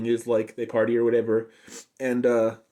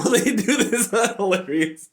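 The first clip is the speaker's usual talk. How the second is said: excited; 11 semitones higher, 4 dB louder, slower than usual. Real, not acted. Excited retelling of funny gag.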